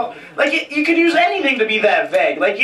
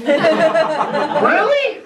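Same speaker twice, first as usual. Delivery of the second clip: mock amazed; 6 semitones higher, much slower than usual. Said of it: "I'm like".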